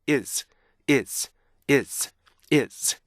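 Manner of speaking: "it's" vowel first, then weakened Z; joined-up is. Shown as a demonstration. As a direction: run the two beats of "it's" together. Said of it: "이걸 빨리 하면요".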